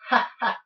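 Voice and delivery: loud, high "ha ha"; hammed-up professor's laugh; acted chuckle.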